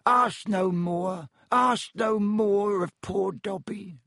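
high, drawn-out elf pleading; anguished high-pitched elf plea; distressed house-elf. A narrator's reading. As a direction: beg slowly in a squeaky elf voice. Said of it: "stammered the elf".

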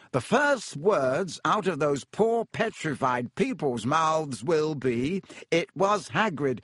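slow, self-important drawl; lightly voiced vain professor; pompous Lockhart.

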